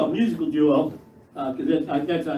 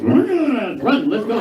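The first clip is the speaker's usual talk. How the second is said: eager rush; 5 semitones higher, 3 dB louder, much slower than usual. Retold or imitated. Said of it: "we're like".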